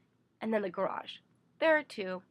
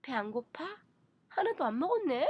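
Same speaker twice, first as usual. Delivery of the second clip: mother's higher-pitched questioning in Korean; fretting mother; 5 semitones higher, much faster than usual. Acted. Mother to child over a still full plate, fretting. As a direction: voice a mother pressing food in Korean. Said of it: "have my mother look at my still full plate and say".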